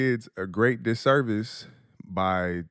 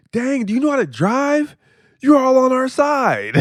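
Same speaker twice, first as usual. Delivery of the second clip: put-on much higher, louder kid voice; imitating his son; 7 dB louder than usual. Son heckling another driver from back seat, squeaky kid voice. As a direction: play his little boy mouthing off at a driver. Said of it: "He was like".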